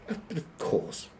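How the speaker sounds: high, airy hotel receptionist voice; high-pitched accommodating receptionist; obliging receptionist. Acted. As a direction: pitch it right up, eager to oblige. Receptionist reassures embarrassed duck guest.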